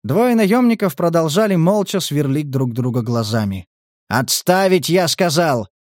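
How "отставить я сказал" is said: «Отставить» said calmer, less barked. Acted. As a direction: repeat «Отставить» more evenly. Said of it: "уже более спокойным тоном". (спокойнее «Отставить»)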